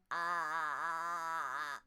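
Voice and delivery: loud, tight throat croak; croaky tightness. Shown as a demonstration. Coach checks the class and demos a loud, tight croak. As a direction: keep the throat clenched and push out a loud croak. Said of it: "You still getting that croaky tightness?".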